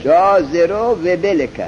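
slow, drawn-out جازرو و بلک; slow recited demo. Shown as a demonstration. Teacher reciting the example for students. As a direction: sound out جازرو و بلک slowly. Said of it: "چیه؟".

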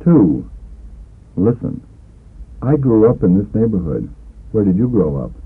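ordinary talk, nothing marked

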